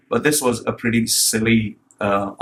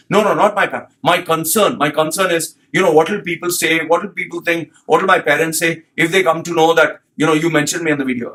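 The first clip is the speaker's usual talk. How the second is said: lightly voiced anxious client, higher; mock fretting client; 4 semitones higher than usual. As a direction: mimic a worried client fussing over her privacy. Client retold, pleading and fretting.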